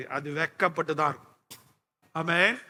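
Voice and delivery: ordinary talk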